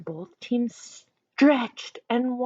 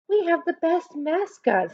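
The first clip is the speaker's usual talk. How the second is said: put-on girl voice; 8 semitones higher than usual. A narrator's reading. Ashley voiced in story.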